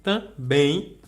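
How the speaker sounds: "Também" with weight on the final syllable; last syllable stressed. Shown as a demonstration. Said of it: "sílaba um". ("Também" com a última sílaba forte)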